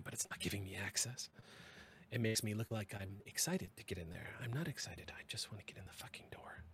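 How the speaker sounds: hissed, frustrated whisper; angry whisper. Acted. Chief cursing the door under her breath, whispered. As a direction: whisper the fury so nobody hears. Frustrated at denied access, hushed.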